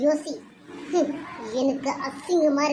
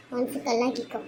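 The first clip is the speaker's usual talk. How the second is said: softer, hushed repeat of மனசு கல்லாக்கிக்கோ; 2 semitones lower, 5 dB quieter than usual. Acted. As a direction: say கல்லாக்கிக்கோ quietly, almost to herself. Mother repeats advice softly. (மென்மையான மெல்லிய குரல்)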